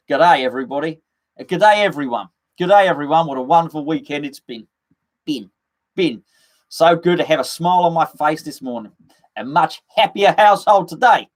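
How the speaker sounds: mock Australian morning greeting; Australian accent. Streamer greeting everyone as an Australian, put-on Australian accent. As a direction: imitate a chirpy Aussie radio host. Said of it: "He's probably not even Australian".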